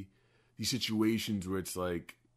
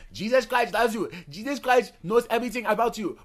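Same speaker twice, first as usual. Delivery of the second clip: loud, high-pitched African lady preacher; preaching train lady; 12 semitones higher, 9 dB louder, faster than usual. Retold or imitated. Imitating lady on the train condemning sinners, high and loud. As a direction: imitate a woman preaching loudly at train passengers. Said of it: "You sound like the lady on the train".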